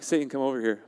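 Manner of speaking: loud, punchy mock challenge; playful taunting. Preacher jokingly summoning Satan for a beating, playful taunt. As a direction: call the enemy over, cocky.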